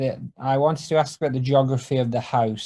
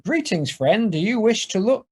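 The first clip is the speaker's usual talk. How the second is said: recorded phone message; 7 semitones higher than usual. Acted. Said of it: "Homer's voice comes out of the phone".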